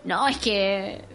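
put-on sulking boyfriend blaming her comment, whiny and slow; mock sulky boyfriend. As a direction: whine it out like a wounded man.

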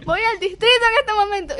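imitated mother storming off; mother warning the inspector; mock angry mother. Mother threatens to leave.

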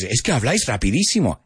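quick imitation of a complaining student; fast quoted Spanish; imitated complaint. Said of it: "A lot of times you guys".

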